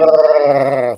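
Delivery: loud rough wookiee roar; Chewbacca roar. Acted. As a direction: belt out a Chewbacca yell. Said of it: "That's my best".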